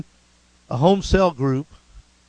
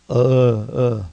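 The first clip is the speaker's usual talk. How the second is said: re-enacted groan from the gut, low and heavy; imitated groan; 3 semitones lower, 5 dB louder than usual. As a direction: groan like an air bubble coming up. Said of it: "I remember going".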